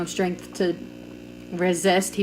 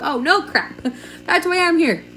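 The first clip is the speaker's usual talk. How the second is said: sarcastic laugh; 8 semitones higher than usual. Retold or imitated. Sarcastic inner reply to doctor.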